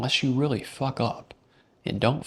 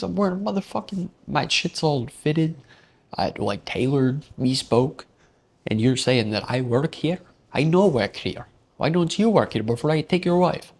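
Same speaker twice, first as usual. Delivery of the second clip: higher, louder hammed-up indignation; mock outrage; 5 semitones higher, 4 dB louder than usual. Narrator boasting at the guy in mock fury, loud. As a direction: puff up over the tailored suit.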